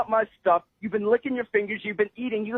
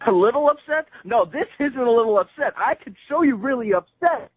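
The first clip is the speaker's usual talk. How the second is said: angry. Real, not acted. Customer told he's upset.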